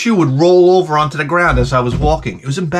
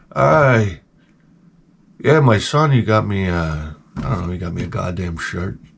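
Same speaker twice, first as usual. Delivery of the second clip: very low grumble with the anger drained; 10 semitones lower, 3 dB quieter than usual. Quoting a man about a gift from his son, imitating an angerless complaint. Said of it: "couldn't muster the anger anymore".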